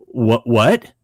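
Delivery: stammered, baffled double take; mock stunned stutter; retold astonishment. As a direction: replay being caught completely off guard. Retells his stunned reply.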